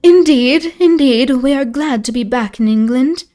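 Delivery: high, loud and fervent lady; high-pitched. A narrator's reading. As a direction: lift the Comtesse's voice high and fervent. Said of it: "that was more high-pitched".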